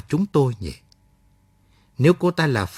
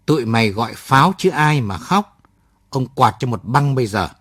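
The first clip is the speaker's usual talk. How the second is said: a touch louder, pressing each word down; stern, emphatic threat; 4 dB louder than usual. Acted. Soldier threatens the captured girl, stern and emphatic. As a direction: lean hard on the words like a threat. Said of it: "nói dằn giọng".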